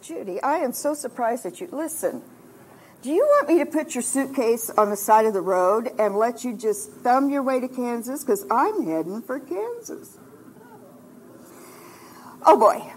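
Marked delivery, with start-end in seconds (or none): 0.0-10.2 quieter, measured reproof, lightly voiced; understated stern husband; firm husband. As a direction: lay down a mild ultimatum, softly. Acting husband's firm refusal.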